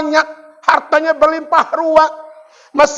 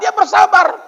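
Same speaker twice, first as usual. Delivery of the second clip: preacher shout; 4 semitones higher than usual. Real, not acted. Preacher raises voice.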